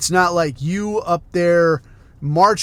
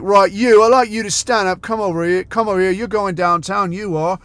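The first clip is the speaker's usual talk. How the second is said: loud, bossy copper telling someone to get up; mock cop barking orders; 2 semitones higher, 5 dB louder than usual. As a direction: order them around like a heavy-handed cop. Cops barking orders at people.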